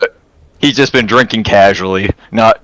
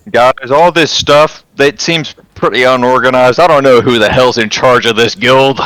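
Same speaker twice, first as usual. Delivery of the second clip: yelling from another room; 4 semitones higher than usual. Acted. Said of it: "I'm just yelling from the other room".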